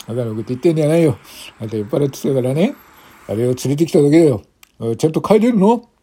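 fast scolding officer. Acted. Officer scolding drunk woman.

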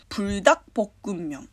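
"プルダックポックンミョン" said as in Korean; Korean pronunciation. Shown as a demonstration. Explaining the noodle name to listeners, "プルダックポックンミョン" in Korean pronunciation. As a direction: demonstrate "プルダックポックンミョン" with Korean sounds. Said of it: "韓国語の発音の話なんですけど".

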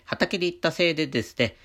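stuffy nose from allergies; talking through a blocked nose; nasal voice. Real, not acted. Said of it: "このような鼻声になっております".

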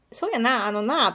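lightly put-on Kuwana dialect; わざとらしい桑名弁. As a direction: slip into a slightly self-conscious Kuwana lilt. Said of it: "それを桑名バージョンで読む". (軽く作った、わざとらしい桑名弁で)

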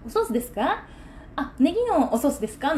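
put-on humble, over-polite question; mock deferential. Seller mocking how she would humble herself to customers, deferentially. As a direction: imitate a fawning, overly courteous server. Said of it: "わざわざ下に出て".

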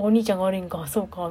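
sleepy murmur. Retold or imitated. Boyfriend half-asleep agreeing.

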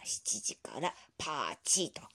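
slow whisper to himself; whispered memo. Acted. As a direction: mutter it while writing. Grandpa noting a memo. (小声でメモを読み上げる)

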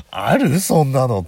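loud, high disbelief; incredulous. Retold or imitated. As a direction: shout your disbelief. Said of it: "と思いながら".

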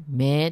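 「目」 drawn out as "mee"; lengthened vowel. Shown as a demonstration. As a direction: stretch 「目」 into a long vowel, Osaka style. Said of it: "こう伸ばすんですよね". (「目」を「めー」と伸ばす)

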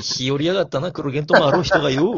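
Edo-style tough guy voice. Acted. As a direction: pick a playful fight in character. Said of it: "江戸っ子みたいなキャラ". (江戸っ子キャラで絡む)

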